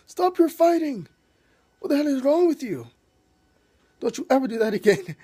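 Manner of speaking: retold yell. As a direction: bellow it like a son fed up with his parents. Son Bjorn breaks up parents' fight.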